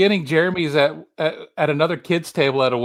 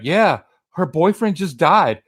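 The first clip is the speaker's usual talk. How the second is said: Chaz; 3 semitones higher, 4 dB louder than usual. Retold or imitated. Movie character scoffing about a funeral he's going to, imitation. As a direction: play up the mocking disbelief. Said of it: "This is Chaz talking about".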